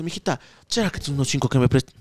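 put-on low, soft, slurry drunk plea; drunk man asking. Drunk man begs a girl for five dollars, low and soft. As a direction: mumble it like a drunk begging for cash. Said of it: "ya chumado, dice".

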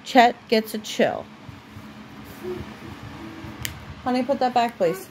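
steady storybook reading voice; reading to a child. Acted. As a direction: read it aloud for a little one at bedtime. Parent reads a story aloud to child.

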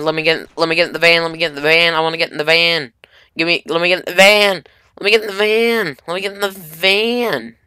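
begging repeatedly to get in; pleading. Real, not acted. Begging to board vehicle.

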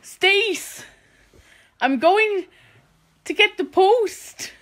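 slow attempted Welsh accent; Nessa. Trying a Gavin and Stacey character, slow Welsh accent. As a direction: pause heavily, in a rough Welsh lilt. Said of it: "I'll try to do Nessa".

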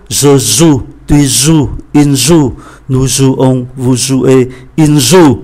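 teacher reading conjugation, leaning on joue; stressed conjugation. Shown as a demonstration. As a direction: stress joue in each form, all said zu. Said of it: "các vị trí mà tôi nhấn mạnh".

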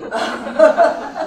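loud, high burst of real laughter. Real, not acted. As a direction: laugh out loud, caught off guard. Guest caught out, bursts laughing. (éclat de rire)

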